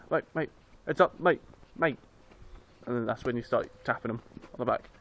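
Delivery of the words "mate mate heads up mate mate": retold call-out. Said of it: "I've shouted a few couple of times".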